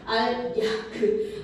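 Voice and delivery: 알, 야, 그 broken into separate syllables; pronunciation demo. Shown as a demonstration. Teacher struggling with a tricky pronunciation, sounding it out. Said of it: "발음 너무 힘들다".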